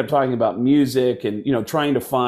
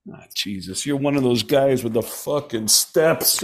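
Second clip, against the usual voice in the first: mock disgust. Dice to a guy out walking, mock disgust. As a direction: imitate a disgusted brush-off. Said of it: "in disgust".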